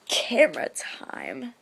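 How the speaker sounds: slow breathy whisper to herself. Retold or imitated. To herself on waking, a slow whisper. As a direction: hush it, excited, camera ready.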